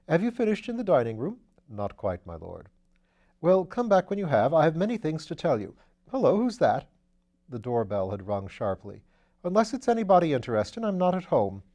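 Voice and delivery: put-on an airy young lord teasing his valet; Lord Peter. Lord Peter gives orders.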